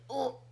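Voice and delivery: a quiet little oh; soft oh. Shown as a demonstration. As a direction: breathe out a soft oh. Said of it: "like that".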